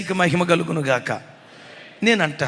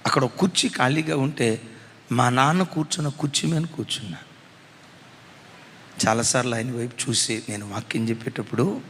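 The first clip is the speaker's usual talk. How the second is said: tender low reflection; 7 semitones lower, 3 dB quieter than usual. Real, not acted. Tender memory of father.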